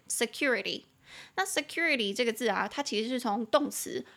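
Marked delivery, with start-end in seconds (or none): 0.1-0.8 security with the weight on "cu", se-CU-rity; stress on second syllable. Shown as a demonstration. Teacher showing learners where security is stressed. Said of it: "重音节在第二音节".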